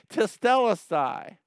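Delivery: "Tetelestai" cried out high and loud, falling off; shouting tetelestai. Shown as a demonstration. Preacher repeats Jesus' cry to the church, ringing shout. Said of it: "like shouting it".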